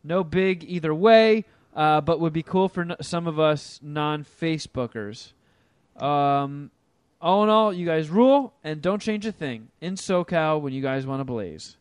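upbeat read-aloud voice; reading an email aloud. Acted. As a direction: read the listener email brightly. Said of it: "We'll do one email".

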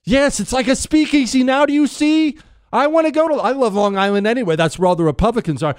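high-pitched, rushing enthusiasm; giddy excitement. Real, not acted. Host gushing to Chris about a mob speakeasy, giddy excitement.

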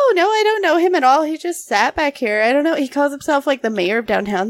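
fast, high mock denial through laughter; laughing denial. Pretending not to know her friend, fast and laughing. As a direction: rattle off the fake denial, barely holding in a laugh. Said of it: "And I was like".

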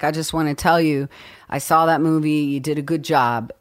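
lightly imitated low, understated compliment; De Niro's stammer. De Niro praising her at a restaurant, low understated imitation. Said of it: "in his stammering way that he does".

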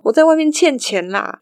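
high-pitched, mildly whining confession; imitated tearful plea. Caller telling mum he owes money, mock tearful plea. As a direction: lightly mimic a distressed caller pleading. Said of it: "里面男子又哭得很伤心".

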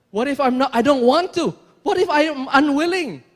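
loud, acted stubborn refusal; defiant objection. Preacher voicing someone unwilling to give it up, defiant. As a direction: push back loudly as the unwilling listener.

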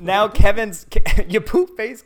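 se ríe mientras suelta el insulto en broma, más agudo y fuerte; laughing taunt. Pretend. Laughing mock insult back.

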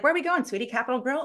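a hint of an eager husband asking his wife; imitated husband. Husband voiced asking about date night.

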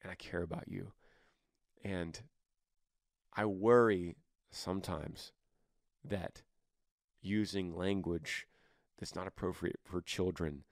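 mother gently offering help to her grown son; loving mom. Pretend. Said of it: "let's pretend it's your son".

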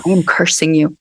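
solemn, low curse with weight on am; retold curse. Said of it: "I put my finger in her face and I go".

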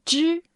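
支 as the teacher models its tone; 支 drawn out as a single model syllable; careful tone demonstration on 支; third tone demo. Shown as a demonstration. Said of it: "the third tone".

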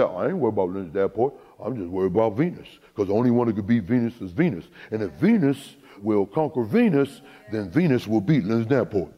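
imitating her father. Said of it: "That's how he talks".

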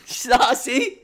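helpless high giggle on the word; laughing. Real, not acted. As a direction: squeal it through a laugh. Cracking up at the banter.

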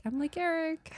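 high-pitched playful self-quote; hammed-up high show-and-tell intro; retold introduction.

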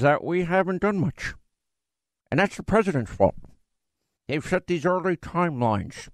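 a hint of a stuffy, put-upon senator; Mitch McConnell impression. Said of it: "this is my Mitch McConnell".

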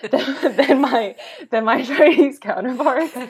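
words breaking up with real laughter; laughing through words. Real, not acted. Joking about being bigger.

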